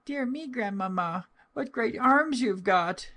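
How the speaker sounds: put-on very high, wondering child's voice; little girl's voice. A narrator's reading. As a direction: marvel like a small girl. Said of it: "so she said to her".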